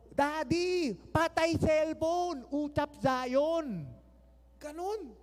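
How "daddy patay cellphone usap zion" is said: put-on loud, slow childish yell of Daddy; imitated child yelling. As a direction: yell like a toddler grabbing the phone.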